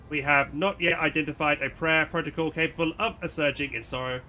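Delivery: flat, lightly robotic tech priest; barely-there machine voice. Acted. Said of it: "another robot voice".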